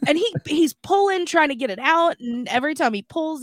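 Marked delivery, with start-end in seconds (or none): none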